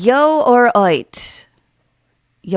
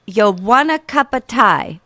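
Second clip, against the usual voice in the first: put-on amateur British accent. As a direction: offer tea like a British local. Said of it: "American girl doing real bad accents".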